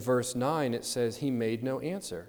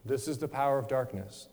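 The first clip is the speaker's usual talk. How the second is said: calm. Retold or imitated. Preacher quoting Christ facing his captors, calm. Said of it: "calmly saying".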